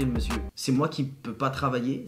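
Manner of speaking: ordinary delivery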